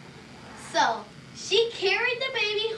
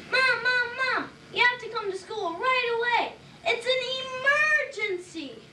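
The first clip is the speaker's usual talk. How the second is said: put-on urgent kid; 7 semitones higher than usual. Ben calling mom urgently.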